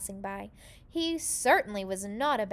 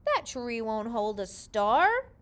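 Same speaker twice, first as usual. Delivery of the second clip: cried out; 5 dB louder than usual. A narrator's reading. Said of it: "cried out".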